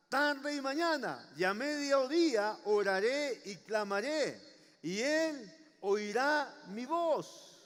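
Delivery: slow, ringing scripture proclamation, pausing between phrases; confident declaration. Acted. Preacher voicing King David's trust in God, confident and emphatic. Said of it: "Miren con la confianza que él hablaba".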